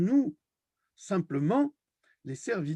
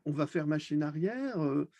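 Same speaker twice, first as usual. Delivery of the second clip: mock trembling. Mockingly voicing supposed fearful reaction.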